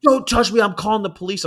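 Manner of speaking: high, loud mock outrage; retold shriek. Lady threatening to call police, high loud mock shriek. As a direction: shriek it like an offended shopper. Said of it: "And she's like".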